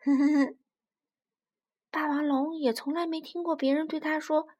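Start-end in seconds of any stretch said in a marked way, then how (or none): 0.1-0.6 loud closed little chuckle; acted giggle. Little dinosaur amused by uncle's joke, giggling. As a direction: giggle through the nose in amusement.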